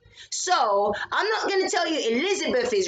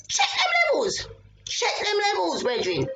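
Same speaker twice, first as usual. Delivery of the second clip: shouted aside; 8 semitones higher than usual. Real, not acted. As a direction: yell it to the room.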